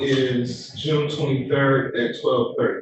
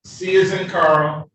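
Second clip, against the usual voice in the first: slower and a bit louder, spelling it out; slow, clear repeat; 3 semitones higher, 3 dB louder, slower than usual. Real, not acted. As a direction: repeat it slowly so he catches it. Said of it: "What is it now?".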